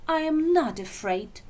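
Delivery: loud, high bravado; declared. Acted. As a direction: insist loudly, too loudly. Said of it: "she declared".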